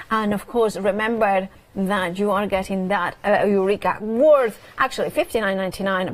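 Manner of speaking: brisk shopping-channel price rundown; sales pitch. Acted. Host selling the stamp bundle, upbeat sales pitch. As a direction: sell the deal to viewers.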